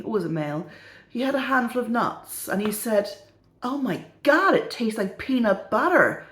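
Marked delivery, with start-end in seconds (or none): 3.6-6.2 mildly amazed exclamation; mock surprise, lifted at the start; retold surprise. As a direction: act out someone amazed at a taste. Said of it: "he was really surprised".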